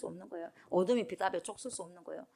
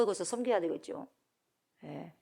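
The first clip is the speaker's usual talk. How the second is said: ordinary talk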